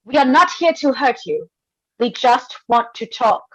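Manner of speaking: loud, high reassuring call. Acted. Calling up to hidden voice.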